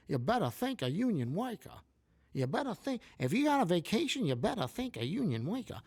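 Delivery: high, sing-song vaudeville rally voice; mock a politician pandering to union workers, pitch way up; Kamala impersonation. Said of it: "doing my Kamala impersonation".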